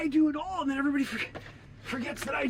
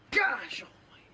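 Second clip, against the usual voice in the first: whispered exasperation. Acted. Exasperated aside.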